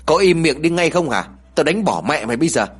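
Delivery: put-on a mother's sharp yell at her crying kid; angry yell. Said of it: "Thùy liền tức giận rồi quát".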